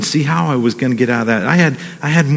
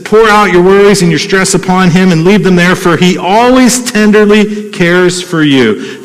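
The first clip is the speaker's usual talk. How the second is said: tender reading; 4 semitones higher, 3 dB louder than usual. Acted. Pastor rereads the verse to church, tender. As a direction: linger over the promise gently.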